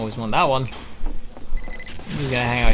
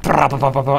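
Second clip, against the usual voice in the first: sentry gunfire noise; 4 dB louder than usual. Retold or imitated. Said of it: "the sentry's like".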